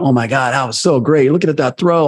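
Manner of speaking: gushing, high and rising; hammed-up bragging about his own throw; mock self-praise. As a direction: admire yourself a bit too much.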